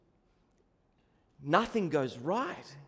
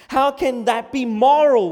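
loud, high outburst of protest; indignant cry; 5 semitones higher, 10 dB louder than usual. Acted. Preacher voices Christians protesting to society, indignant cry. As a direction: cry out in moral outrage. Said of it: "we cry".

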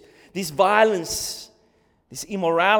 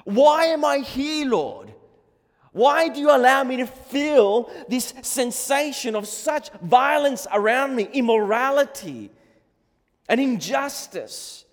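raised, pitched-up desperate protest; crying out to God; 5 semitones higher, 5 dB louder than usual. Acted. Prophet questions God about violence and injustice, crying out. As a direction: demand answers from God, loud and high. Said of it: "he's just been crying to God".

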